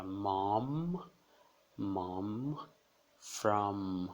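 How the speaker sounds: mom with a long humming M; mom, hold the M at the end; strong final M. Shown as a demonstration. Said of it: "no final das palavras o M é bem forte". (mom com M final forte)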